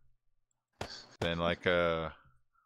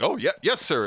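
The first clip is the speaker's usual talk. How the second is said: meek chauffeur; 4 semitones higher, 4 dB louder than usual. Retold or imitated. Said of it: "He's like".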